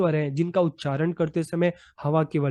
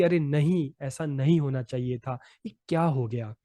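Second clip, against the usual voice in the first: mild disappointment; 2 semitones lower than usual. Shown as a demonstration. Teacher showing students how intonation expresses despair, mildly dejected. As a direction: let the voice drop in understated disappointment. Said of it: "कभी निराशा प्रकट करते हैं".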